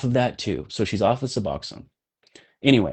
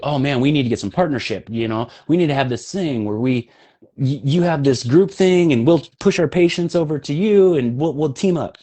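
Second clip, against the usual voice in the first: mildly excited retelling of a pitch; higher, keen mock sales pitch; eager pitch; 5 semitones higher than usual. Doctor pitching a partnership at first meeting, eager.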